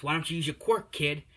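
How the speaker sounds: mildly hammed-up villain challenge; lightly acted villain. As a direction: press the question like a mock villain. Villain taunts trapped kid in retelling.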